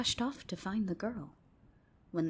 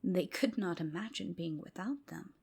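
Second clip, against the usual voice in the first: whispered storytelling. A narrator's reading. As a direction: hush it like a secret at bedtime. Whispered bedtime tale.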